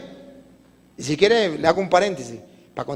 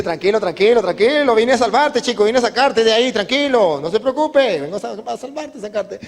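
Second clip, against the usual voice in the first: hurried reassurance; 3 semitones higher than usual. Acted. Rescuer soothing the frantic man.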